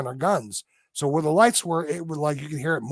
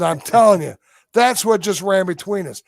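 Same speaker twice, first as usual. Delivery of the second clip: insistent retelling; 4 semitones higher, 7 dB louder than usual. Retold or imitated. Insisting to doubting hunting buddies.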